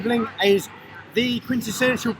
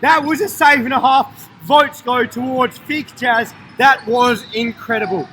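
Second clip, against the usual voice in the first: high, loud, emphatic and slowing; thrilled praise; 3 semitones higher, 4 dB louder, slower than usual. Real, not acted. Commentator awarding votes for a save, thrilled praise. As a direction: hail the save with big emphasis.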